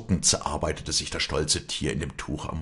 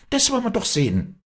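high, loud angry challenge; blazing anger; 5 dB louder than usual. A narrator's reading. Walli forgets all to protect her bird, angry outburst. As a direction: flare up in defiance. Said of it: "rief sie in flammendem Zorn".

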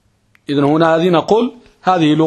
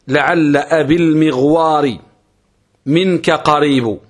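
reciting verse; slower than usual. Shown as a demonstration. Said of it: "في قول الشاعر".

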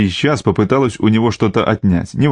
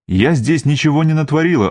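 snapping back; 5 semitones higher than usual. Acted. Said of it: "огрызнулась она".

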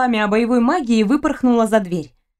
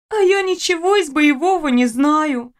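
dejected; 5 semitones higher than usual. Acted. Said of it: "тут же поникла Фриза".

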